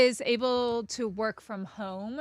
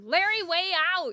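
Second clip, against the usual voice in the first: silly sign-off voice; 9 semitones higher than usual. Pretend. Playful sign-off voice.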